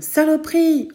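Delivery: high, loud angry yell; furious curse. Acted. Mother curses loudly after falling. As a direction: spit out the curse in pain. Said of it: "Elle gueule".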